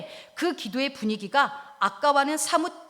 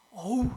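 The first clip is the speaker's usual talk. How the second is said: anguished groan; slower than usual. Acted. Someone too wronged to pray, groaning. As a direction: let a heavy sigh escape. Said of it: "이거부터 나와요".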